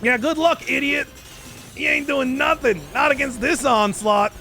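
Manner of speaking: high, cocky taunting; playful trash talk. Real, not acted. Gamer trash-talking the enemy he is attacking, cocky taunt.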